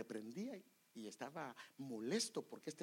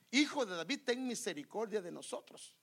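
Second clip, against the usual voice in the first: retold crying out; 3 semitones higher, 4 dB louder than usual. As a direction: imitate a man calling out for mercy. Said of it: "pero él gritaba más y más". (clamor imitado, fuerte al inicio)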